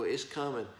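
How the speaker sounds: ordinary delivery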